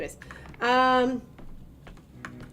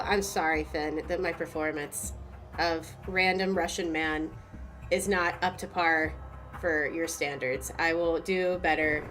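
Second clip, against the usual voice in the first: mock formal apology. Mock apology to Finn in chat.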